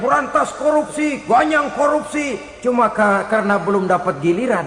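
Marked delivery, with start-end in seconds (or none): 0.0-2.3 higher-pitched slogan chant, not truly shouted; mock protest cry. Would-be official rallying against corruption, mock protest cry. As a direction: imitate a zealous crusader's cry at normal volume. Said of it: "keras benar teriak".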